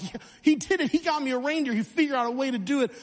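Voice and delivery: put-on a kid who just heard he's getting a reindeer; excited kid. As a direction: gush it fast like a thrilled five-year-old. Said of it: "I'm like".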